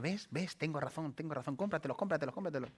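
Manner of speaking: a lightly voiced coaxing inner voice; mild teasing temptation; insisting soul. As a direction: nag gently, over and over. Soul insists she buy them.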